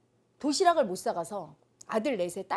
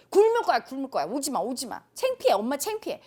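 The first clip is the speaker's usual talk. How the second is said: loud whiny outburst at mom; child's tantrum; 2 semitones higher, 6 dB louder than usual. Retold or imitated. Daughter yelling at her mother to stay away from school, tantrum. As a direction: shout it at your mother, ashamed of her. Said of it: "막 해버렸어요".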